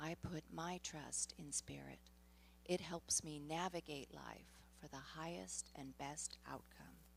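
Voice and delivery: whisper. Leading a group affirmation, saying it the second time in a whisper. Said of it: "bring it down to a whisper".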